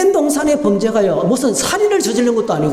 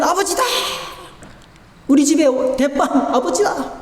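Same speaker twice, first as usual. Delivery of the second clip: put-on excited children; 4 semitones higher than usual. Children greeting father.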